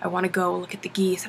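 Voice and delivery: put-on low soft sulky kid; whiny kid. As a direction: mumble it like a sulking boy. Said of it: "He's like".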